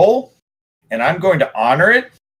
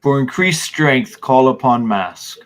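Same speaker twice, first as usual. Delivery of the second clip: slow dictation; slower than usual. Shown as a demonstration. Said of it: "repeat that one more time".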